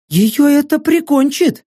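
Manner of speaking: mocking mercenary woman. Saka's voice.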